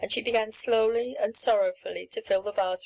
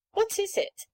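dismayed question; 11 semitones higher than usual. Acted. Rosamond dismayed at black stuff.

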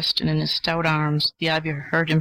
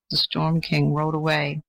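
ordinary delivery

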